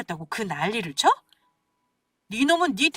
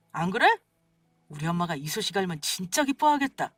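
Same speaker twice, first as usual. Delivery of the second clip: usual speaking voice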